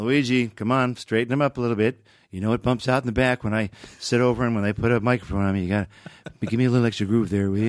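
lightly voiced Reagan instructing his tailor; chatty, quick fitting instructions; a hint of the vain president being fitted; president at tailor's. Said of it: "brought his Hollywood tailors".

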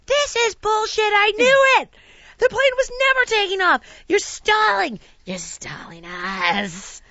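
high, loud exasperated outburst, slowing at the end; retold fury, hammed up; mock angry rant. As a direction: rant at the airline staff for stalling. Retold ranting at airline staff.

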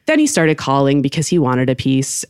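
ordinary talk

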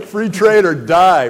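loud and slow, each word weighted; slow battle cry. Real, not acted. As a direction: chant it like a war cry, slowly. Repeats slogan as battle cry.

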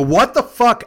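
high, loud indignant outburst; retold outrage. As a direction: act out angry disbelief.

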